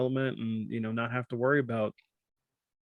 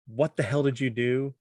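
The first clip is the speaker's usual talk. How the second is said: annoyed wife; 2 semitones higher than usual. Retold or imitated. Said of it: "this is David's wife".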